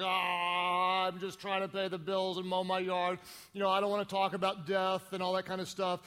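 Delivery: lightly mocked reluctance, droning along; reluctant brush-off. People dodging talk of death, mock reluctant. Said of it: "a lot of people are just like".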